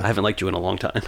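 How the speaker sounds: quick, deadpan imitation; flat delivery. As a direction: toss it off without feeling. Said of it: "It was so flat".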